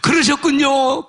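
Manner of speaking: slow, drawn-out mock-tearful cry; retold weeping. Weeping man answers the Lord, retold tearful cry. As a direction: re-enact a tearful realisation, stretching the words. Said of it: "그러면서 운 거야".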